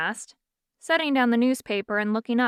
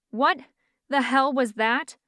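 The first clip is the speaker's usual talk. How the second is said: choked; 4 semitones higher than usual. Acted. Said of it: "Fiona choked".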